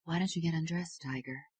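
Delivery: soft, teasing murmur. Acted. Wife murmuring to husband, playful and soft.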